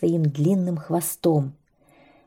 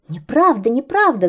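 raised, higher shout of protest; birds shouting; 5 semitones higher, 4 dB louder than usual. Acted. Birds shout back at the boasting kite, loud and higher. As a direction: cry out against the lie. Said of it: "закричали птицы".

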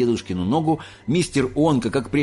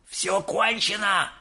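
high, drawn-out wail of doom; despairing cry; 10 semitones higher, slower than usual. A narrator's reading. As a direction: cry it high and slow, as if doomed. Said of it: "закричал дедушка Джо". (отчаянный протяжный вопль)

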